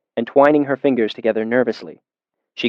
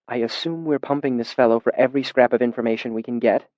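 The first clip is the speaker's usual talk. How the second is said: quiet aside; 6 dB quieter than usual. Acted. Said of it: "she said quietly over my shoulder".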